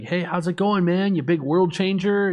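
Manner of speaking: high, breezy greeting voice; imitated upbeat buddy. Buddy from California calls the teller, breezy teasing greeting. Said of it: "and he's like".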